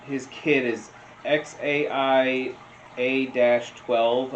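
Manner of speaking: ordinary talk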